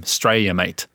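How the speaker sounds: "Australia, mate" in a broad Aussie accent, "Australia" clipped. Shown as a demonstration. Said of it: "That's what you hear all the time".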